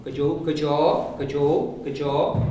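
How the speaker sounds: good jaw repeated slowly, jaw sounded with open and closed O; contrast drill. Shown as a demonstration. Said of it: "You hear the difference?".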